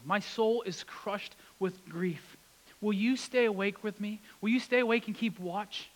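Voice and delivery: grieving Jesus. Acted. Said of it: "Now imagine Jesus saying that to you".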